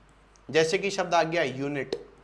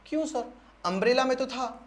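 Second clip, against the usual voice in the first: lightly voiced student protest, pitched higher; objecting student; 5 semitones higher, faster than usual. Student protests to sir about the umbrella question, higher objecting voice. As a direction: play a pupil challenging the teacher, quickening at the end. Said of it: "अरे हाँ करवाया".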